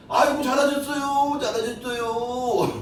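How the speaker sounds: high then slowing, sarcastic sing-song; wife mocking her husband's dancing; sneering mock praise. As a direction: stretch the fake praise out mockingly. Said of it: "내가 속 흉내내는 거예요".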